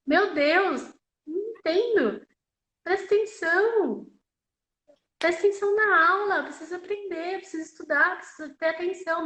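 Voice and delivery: exasperated inner scolding. Retold or imitated. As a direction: scold someone in your head for not paying attention. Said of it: "E aí eu fiquei, né, pensando". (bronca mental exasperada)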